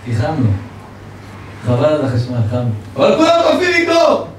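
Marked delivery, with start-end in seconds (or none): 3.0-4.3 high, loud exclamation of disbelief; exasperated protest. Acted. Preacher protesting to the congregation about the freezing room, high and loud. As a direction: cry out that everyone is freezing.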